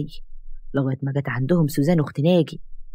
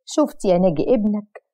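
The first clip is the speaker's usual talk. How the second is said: fake crying; 3 semitones higher than usual. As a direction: whine it out like staged tears. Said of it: "فكملت في العياط أكتر وأكتر".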